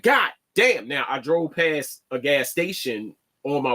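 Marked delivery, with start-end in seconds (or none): 0.0-0.9 mock exasperation. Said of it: "I'm like".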